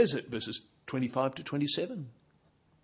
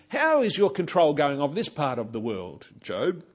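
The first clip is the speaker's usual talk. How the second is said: sarcastic; 5 dB louder than usual. Pretend. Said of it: "notice the tone of sarcasm".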